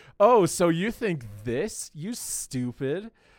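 put-on smug, patronising, slow sarcastic drawl. Describing the Willy Wonka meme for the audience, mock-condescending Willy Wonka. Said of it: "Condescending / sarcastic Willy Wonka".

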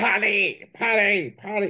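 high, weird parrot accent.

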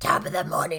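gruff raspy smoker voice.

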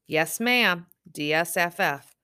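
plain, unbothered, matter-of-fact, businesslike delivery. Narrator reads a policeman answering a woman who was robbed, matter-of-fact. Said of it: "in a matter-of-fact tone".

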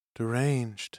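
speaking low. After distant ravings fade away, a woman comments, in a low voice. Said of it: "she said in a low voice".

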